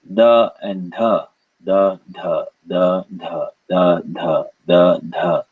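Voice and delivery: the said as duh, airless then with a puff; alternating aspiration. Shown as a demonstration. Teacher drilling students, alternating airless and aspirated the. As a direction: switch each the between plain d and breathy dh. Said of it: "Practice alternating between saying".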